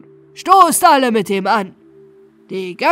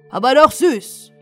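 loud, higher afterthought; relishing exclamation; 6 semitones higher, 9 dB louder than usual. Acted. Captain gloats over the captured king, loud relish. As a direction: savour it out loud.

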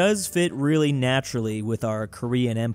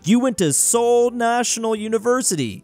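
loud accusation; 6 semitones higher, 5 dB louder than usual. Acted. Mocking accusation of the leader.

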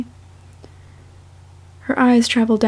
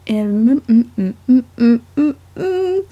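rising, louder mm's climbing up to a squeak; frustrated hums; 4 dB louder, slower than usual. Real, not acted. Reader stumbling on a line, frustrated humming rising. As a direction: hum your frustration up and up.

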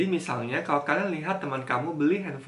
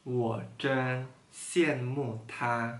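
slow reading; much slower than usual. Shown as a demonstration. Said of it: "Sekali lagi".

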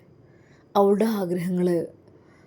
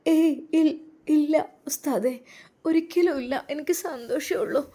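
put-on high, quick protesting young woman; a young wife eagerly insists she doesn't mind; 9 semitones higher than usual. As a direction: rush to reassure him it's fine.

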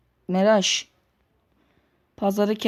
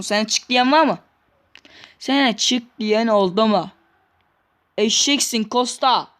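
ordinary talk, nothing marked

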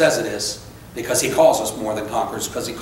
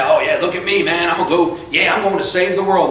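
mock boasting; 4 semitones higher than usual. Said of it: "I don't puff my thing".

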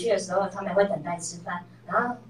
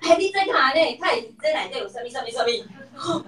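imitating an old angry outburst, higher at the start; hammed-up complaint, trailing off; mock angry complaint; 5 semitones higher than usual. Mom imitates how she used to complain angrily, mock angry. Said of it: "气得讲".

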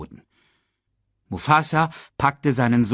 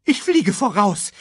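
high, louder bird cry; bird shout; 10 semitones higher, 5 dB louder than usual. A narrator's reading. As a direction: call out as you take off. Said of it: "schrie Sasu". (Sasu schreit hoch und laut)

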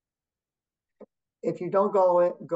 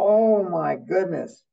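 stunned; 4 semitones higher, 5 dB louder, much slower than usual. Retold or imitated. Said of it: "And I was like".

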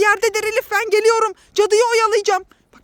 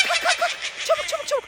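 laughing playful shout; 6 semitones higher, 6 dB quieter, faster than usual. Pretend. Playing at fleeing the witch.

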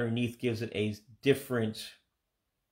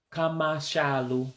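Igbo accent; 4 semitones higher than usual. Shown as a demonstration. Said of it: "with an accent to it".

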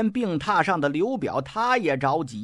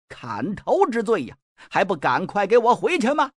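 angry scolding. Acted. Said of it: "蔡瑁把眼睛一瞪".

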